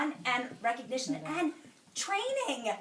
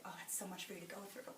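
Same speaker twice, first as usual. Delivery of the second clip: dad crying; 4 semitones lower, 17 dB quieter than usual. Retold or imitated. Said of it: "my dad was crying".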